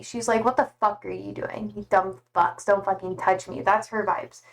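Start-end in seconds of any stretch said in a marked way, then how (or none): 0.4-3.6 low, sassy put-down; quieter, sassy dismissal in a lowered voice; Sandy. Acted. Streamer voicing Sandy's vibe, low and sassy. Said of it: "I view Sandy to be really sassy".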